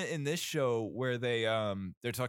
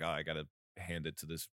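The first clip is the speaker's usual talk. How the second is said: low, quieter menacing Butcher voice; 6 semitones lower, 6 dB quieter, faster than usual. Retold or imitated. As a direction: growl it lower like Butcher. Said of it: "I'm doing a Butcher impression".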